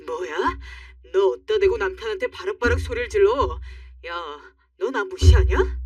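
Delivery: offended husband. Acted. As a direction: demand how dare she. Husband snaps back at wife.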